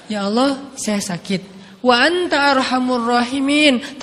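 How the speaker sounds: humble prayer. Shown as a demonstration. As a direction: ask gently without complaining. (doa lirih dan rendah hati)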